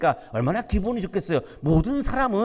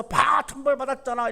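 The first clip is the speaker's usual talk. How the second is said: mock gloating; 5 semitones higher than usual. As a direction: imitate a gleeful gloat, pitched higher. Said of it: "막 신이 나가지고 기뻐해서".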